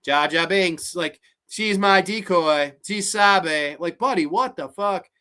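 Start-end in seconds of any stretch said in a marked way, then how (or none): 0.0-3.8 slow, dead-flat robotic line reading; monotone Padmé impression. Mocking Natalie Portman's flat delivery to chat, slow monotone. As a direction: drone it like a bored robot. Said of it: "she's so robot in it".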